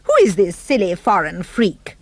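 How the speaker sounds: outraged, loud complaint; huffy outrage at a stranger; indignant cry. Acted. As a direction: sound affronted and cross. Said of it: "she cried".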